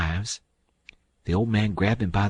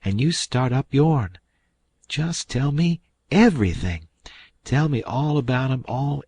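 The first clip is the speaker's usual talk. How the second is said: put-on higher, louder, eager old aunt pressing for news; a fussing aunt demanding every bit of family news; excited country aunt, voice raised; eager Aunt Sally; 6 semitones higher, 4 dB louder than usual. A narrator's reading. Aunt Sally eagerly questioning Huck.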